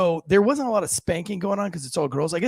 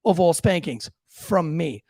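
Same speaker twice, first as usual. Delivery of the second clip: firm raised voice laying down the law; stern dad lecture; 5 semitones higher than usual. Retold or imitated. Father warns his four-year-old son, firm and raised. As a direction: scold the boy, voice up and firm.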